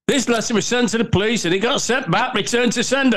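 high-pitched, giggly retelling; fighting back laughter. Retold or imitated. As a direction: quote the judge while trying not to laugh. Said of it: "sorry for laughing".

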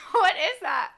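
startled, laughing question; baffled by a weird noise; surprised. Real, not acted. Strange pipe noise interrupts.

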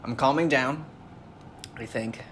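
quiet, pained voice; mouth burning from spicy food. Real, not acted. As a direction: settle the burn, quietly. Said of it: "My mouth is on fire still".

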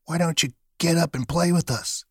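high-pitched storybook rabbit voice; a playful invitation in a high creature voice; wild rabbit. A narrator's reading. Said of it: "one of them asked".

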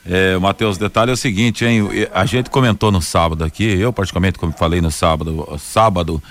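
hoarse, worn-out voice. Real, not acted. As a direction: speak with a hoarse throat. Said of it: "tá rouco de tudo".

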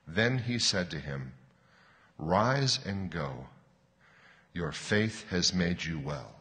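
slow, settling storytelling with long pauses; unhurried, measured scripture reading; bedtime story reading. Real, not acted. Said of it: "I'll read slowly, as if you were a child".

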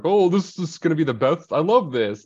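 mock excitement. Voicing boys thrilled by the fight.

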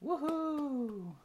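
high gleeful whoop; excited cheer. Real, not acted. Cheering at show opening.

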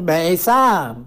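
«میثم» in a drawn-out Turkish accent. Shown as a demonstration. Showing how locals liked the name said, in a Turkish accent. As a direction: stretch «میثم» slowly, Turkish-style. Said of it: "لهجهٔ ترکی مثل لهجهٔ شیرین".

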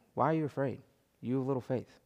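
soft, gentle question with no edge. Acted. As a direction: ask it kindly, without anger. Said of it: "I imagine him saying it gently".

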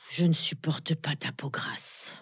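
breathy whispered insult; whispering. Acted. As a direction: whisper it like a confession. Whispered cruel confession.

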